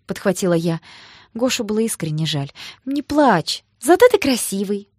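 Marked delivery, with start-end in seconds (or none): 2.9-4.9 consoling. Acted. Consoling a crying friend.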